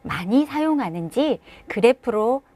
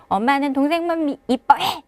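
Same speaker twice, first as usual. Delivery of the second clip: put-on sulky child; 4 semitones higher than usual. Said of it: "아이는 토라져서".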